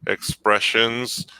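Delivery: drawn-out, very slow demo of the teacher's speech; very slow talk. Shown as a demonstration. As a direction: stretch each word as if in slow motion. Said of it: "he would talk like this".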